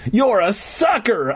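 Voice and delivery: slow, high gloating taunt; exclaiming. A narrator's reading. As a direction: crow it, drawn out. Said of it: "I exclaimed".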